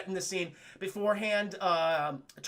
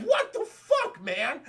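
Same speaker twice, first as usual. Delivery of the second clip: high, loud, drawn-out protest; outraged mock yell; 7 semitones higher, 5 dB louder, much slower than usual. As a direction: yelp it like someone just slapped. Slapped Predator protests in retelling.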